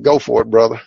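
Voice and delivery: a real laugh through the words; chuckling as he gives the go-ahead. Real, not acted. Telling the bookstore man to go ahead, laughing. Agreeing to street prayer, laughing.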